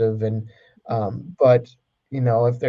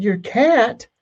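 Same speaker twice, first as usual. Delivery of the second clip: surprised teacher; 10 semitones higher than usual. Acted. Teacher's incredulous reply in joke.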